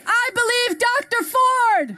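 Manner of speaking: shouted call for the crowd; rally speech. Real, not acted. Leads crowd call and response.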